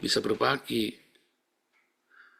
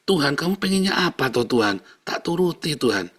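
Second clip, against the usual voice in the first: earnest, raised-pitch question easing into acceptance; submissive prayer; 4 semitones higher than usual. Shown as a demonstration. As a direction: ask God what is wanted, ready to obey. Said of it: "Seringkali kamu cuman perlu ngomong". (doa bertanya dengan pasrah)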